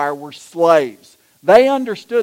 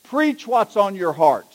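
slow, weighty piece of advice; mildly pompous acted-out order; firm instruction. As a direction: hand it down slowly, word by word. Bishop's order, later echoed back.

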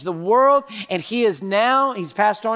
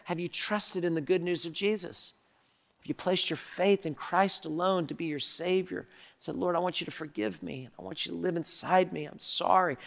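softer, earnest prayer of confession; gentle altar appeal; 5 dB quieter than usual. Acted. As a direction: lead them softly into a sinner's prayer. Soft altar appeal and sinner's prayer.

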